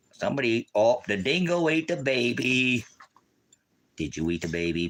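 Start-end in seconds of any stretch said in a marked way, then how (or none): 0.1-2.9 high, loud mock outcry; mock alarm. Announcing that the dingo ate the baby, mock alarm. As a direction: wail it higher in pretend dismay.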